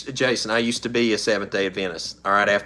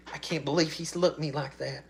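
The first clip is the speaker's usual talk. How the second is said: mock offended woman; 4 semitones higher, 7 dB quieter than usual. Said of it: "and they'll be like".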